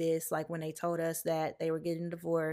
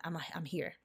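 much softer, almost breathed; soft, near whisper; 8 dB quieter than usual. Shown as a demonstration. Comforting her younger self in the mirror, almost whispered. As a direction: barely voice it to your younger self. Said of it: "look myself in the eyes".

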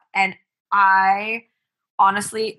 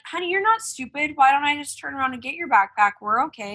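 higher-pitched comforting mom voice; retold reassurance; 5 semitones higher than usual. Mom comforting son who forgot backpack, reassuring. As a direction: soothe a child, imitating a gentle parent.

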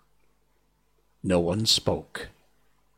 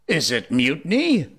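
high, lilting, sweetly polite question; very pleasant; 6 semitones higher, 3 dB louder than usual. A narrator's reading. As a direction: ask it sweetly, lifting the pitch. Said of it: "asked Hook more pleasantly than ever".

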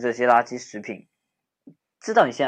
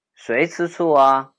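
louder, slow, flustered protest; defensive denial; 3 semitones higher, 7 dB louder, slower than usual. Acted. Friend denying he's jealous, flustered louder protest. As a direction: deny the jealousy too hard.

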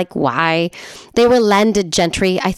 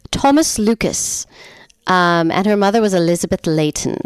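hammed-up amateur English accent; fake English accent. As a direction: recite it with a put-on English accent. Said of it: "having a fake English accent".

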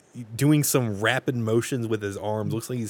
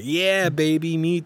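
mock smooth-talker, pitched up; overeager come-on; 5 semitones higher, slower than usual. John answering his crush, over-aggressively eager. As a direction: exaggerate an eager yes to a crush. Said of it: "he's not that aggressive".

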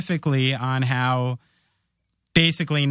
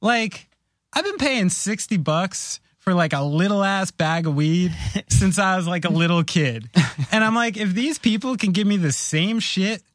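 excited rant; 5 semitones higher than usual. Retold or imitated. Own retold rant to wife.

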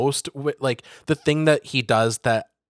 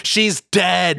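flat blunt delivery; just drop the news coldly; offhand deadpan about bad news; 5 semitones higher than usual. Blunt Jacob line.

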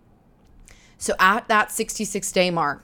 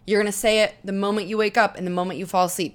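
ordinary talk

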